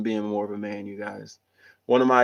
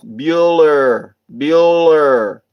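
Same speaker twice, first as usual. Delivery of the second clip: louder mock teacher calling roll; Ferris Bueller roll call; 3 semitones higher, 7 dB louder, much slower than usual. Quoting the movie teacher calling the missing student, louder mock roll call. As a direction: call out the name like a teacher taking attendance. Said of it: "Ferris Bueller's Day Off".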